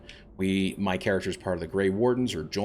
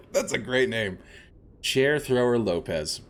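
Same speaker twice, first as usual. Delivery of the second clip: words through a real laugh; 3 semitones higher than usual. Real, not acted. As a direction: chuckle through it. Reading funny names, laughing.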